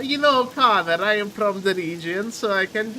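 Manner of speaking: put-on lightly accented Borat delivery. Friend telling Connor he can do the voice, light Borat impression. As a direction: keep a hint of Borat's foreign accent. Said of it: "Yeah, I was quoting Borat".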